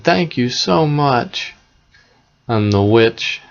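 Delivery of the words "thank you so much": put-on higher, drawn-out grateful child voice; mildly excited, pitched-up children; excited thanks. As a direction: stretch out the thanks with mild excitement. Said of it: "And they were excited".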